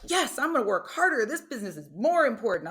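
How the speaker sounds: mock a motivated worker you don't believe; sarcastic mock eagerness. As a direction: ironic pep. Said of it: "that does not make me like".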